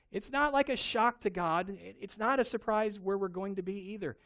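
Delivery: usual speaking voice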